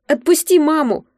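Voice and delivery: put-on child yelling through tears; crying shout. A narrator's reading. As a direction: scream it, sobbing and furious. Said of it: "люто закричал сквозь слёзы". (детский крик сквозь слёзы)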